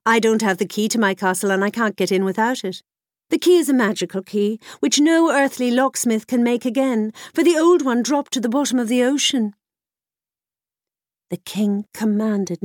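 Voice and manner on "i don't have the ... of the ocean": fast, louder haughty princess; cartoon princess. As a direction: rattle off excuses like a princess. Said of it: "said the princess".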